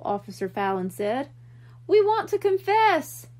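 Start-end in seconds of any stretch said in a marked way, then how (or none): 1.9-3.3 high, loud blurt; boy blurting out a confession. A narrator's reading. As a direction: get it out all at once.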